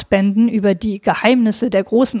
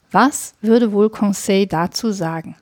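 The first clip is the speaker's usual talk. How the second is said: plain reading voice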